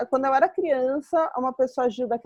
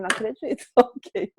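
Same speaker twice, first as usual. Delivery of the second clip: laughing disbelief; 3 semitones lower than usual. Retold or imitated. Reacting to curt reply.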